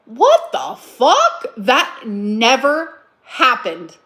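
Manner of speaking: very slow, incredulous with a laugh; can't believe what she just heard; drawn-out laughing outrage; laughing disbelief. Real, not acted. Reacting to ex's claim.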